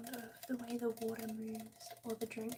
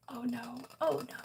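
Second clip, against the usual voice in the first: mock dismay; 5 dB louder than usual. Real, not acted. Rising reaction.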